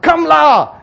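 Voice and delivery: "Come la" high and loud with Singaporean particle; Singaporean "la" ending. Shown as a demonstration. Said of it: "Why the la must be there?".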